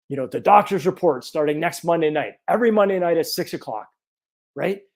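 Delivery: ordinary talk, nothing marked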